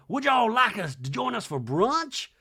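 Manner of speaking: high, bright mock Sutton; hammed-up high Sutton; Sutton impression. Voicing Sutton at door.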